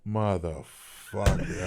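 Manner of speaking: low, slow, soft defeated curse; deflated curse. Retold or imitated. Soldier realising his airborne dreams are gone, low and defeated. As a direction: let the word sink out of you, crushed. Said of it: "And I was like".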